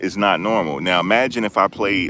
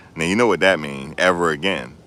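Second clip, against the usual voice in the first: ordinary talk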